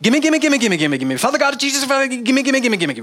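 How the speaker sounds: high whiny gimme chant; hammed-up demanding prayer, high and childish; mock greedy prayer. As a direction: beg God like a greedy child. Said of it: "not just".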